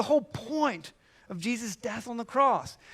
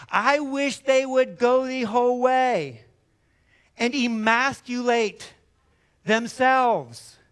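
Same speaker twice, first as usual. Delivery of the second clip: louder, slow and deliberate; emphatic slow preaching; 2 semitones higher, 5 dB louder, slower than usual. Real, not acted. Preacher to the church, slow emphatic outrage. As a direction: lean hard on every word. Preacher's fierce wish on agitators.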